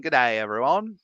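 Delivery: light Australian greeting; hammy Australian hello; Australian accent. Acted. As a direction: say it with a playful Aussie accent. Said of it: "do that in an accent".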